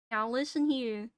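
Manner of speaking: lightly voiced Southern trucker; a tentative go at a Southern accent; Southern space trucker. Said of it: "I was a southern, uh, space trucker".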